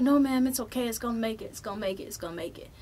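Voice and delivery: calm the customer down; reassuring clerk. Retold or imitated. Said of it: "He was like".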